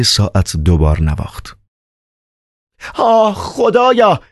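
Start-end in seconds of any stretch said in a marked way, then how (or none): 2.9-4.2 startled slow cry, much higher; surprised. Acted. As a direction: gasp it out in shock. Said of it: "با تعجب این جمله را گفت". (فریاد متعجب و کشیده)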